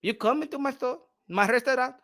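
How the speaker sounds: put-on Chinese-accented restaurant owner in broken English; lightly put-on Chinese accent, matter-of-fact retort; mock Chinese accent. Chinese owner telling off a customer in his restaurant, mock Chinese accent.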